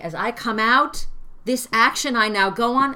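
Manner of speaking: out lifted high; rising read. Shown as a demonstration. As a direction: lift out and go on. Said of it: "weird line".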